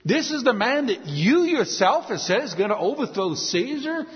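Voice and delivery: mildly incredulous questions, rising at the ends; pleading incredulity. Retold or imitated. Pilate reasoning with the crowd, mildly incredulous. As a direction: reason with them as if it's absurd. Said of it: "trying to reason with them and play upon their emotions".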